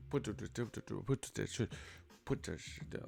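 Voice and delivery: soft, slurred mock-threat mumble; barely enunciate, lips held tight; mumble rapper. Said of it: "they turn into a mumble rapper".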